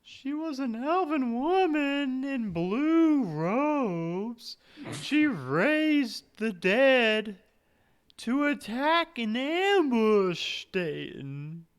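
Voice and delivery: put-on high, slow ghost girl; drifting, wistful ghost. Plays the ghost.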